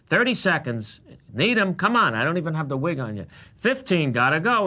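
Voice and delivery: urgent floor manager. Retold or imitated. Floor manager hurrying a performer into costume, urgent. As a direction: call out the time like a harried stage boss. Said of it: "Joe Dixon, who's the greatest floor manager ever, is going".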